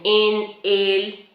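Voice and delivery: "en el" en dos palabras; dos palabras separadas. Shown as a demonstration. ("en el" separado, sin contraer)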